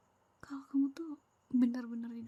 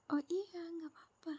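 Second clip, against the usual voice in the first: mock sweet politeness; 5 semitones higher, 4 dB quieter than usual. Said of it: "cara kamu bilang".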